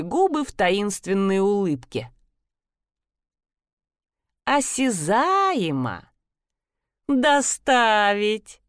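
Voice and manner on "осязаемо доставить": медленно, с насмешливым смешком; смакует «Доставить» медленно, хихикая. Acted. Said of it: "захихикала, как над очень хорошей шуткой". (насмешливо хихикая)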